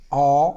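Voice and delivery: औ said with a changed, dragged vowel; a slow rubbed Angika औ; Angika au sound. Shown as a demonstration. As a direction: draw out औ with a rubbing sound. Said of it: "थोड़ा आवाज़ बदल के".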